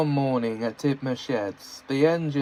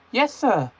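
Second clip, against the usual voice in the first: delighted; 10 semitones higher than usual. Acted. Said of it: "James delightedly".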